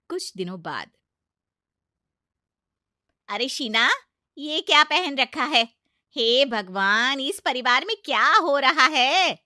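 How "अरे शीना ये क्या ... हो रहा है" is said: be scandalised at what she wears; outraged aunt-in-law. Acted. Aunt-in-law sees Sheena in a suit, loud outraged cry.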